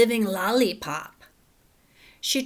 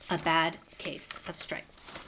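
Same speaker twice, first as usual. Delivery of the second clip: whisper; 4 semitones lower, 6 dB quieter, slower than usual. Shown as a demonstration. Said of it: "title read in whisper".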